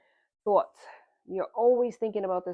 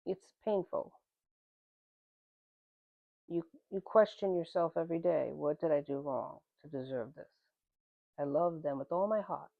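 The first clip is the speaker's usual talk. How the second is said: getting emotional; 2 semitones lower than usual. Real, not acted. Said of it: "I'm getting emotional".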